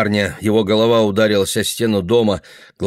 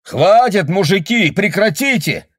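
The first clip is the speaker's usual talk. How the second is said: much higher, loud pleading; shout; 11 semitones higher, 4 dB louder than usual. Acted. Neighbour shouting at the fighters, loud. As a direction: yell over the fight. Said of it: "кричал он".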